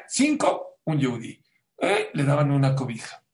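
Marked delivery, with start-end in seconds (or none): 0.1-1.4 excited. Acted. Exclaiming the ratio in sermon. 1.8-2.1 surprised. Acted. Exclamation mid-sermon.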